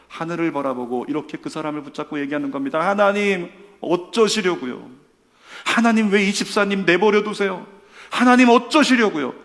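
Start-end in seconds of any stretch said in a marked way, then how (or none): 2.9-9.3 pleading lament, rising higher and louder; lamenting prayer. Acted. Believer praying for a suffering deacon, lamenting aloud. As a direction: cry out to God in acted anguish. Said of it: "그러면서 탄식을 한다면".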